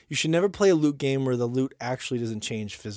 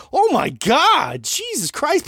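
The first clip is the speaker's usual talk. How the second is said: shocked exclamation; 11 semitones higher, 5 dB louder, much slower than usual. Real, not acted. Shocked reaction to comment.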